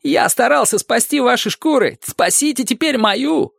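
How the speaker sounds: very high imploring voice; high plea, slowing at the end; pleading. A narrator's reading. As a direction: beg them to save your skin. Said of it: "взмолился он".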